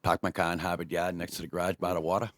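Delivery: thick Boston accent with dropped r's. Shown as a demonstration. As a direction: say it like a born Bostonian. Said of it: "the Boston, Massachusetts accent?".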